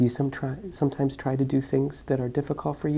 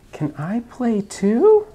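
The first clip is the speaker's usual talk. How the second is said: title voice; 11 semitones higher, 4 dB louder, slower than usual. Acted. Reading title in snake voice.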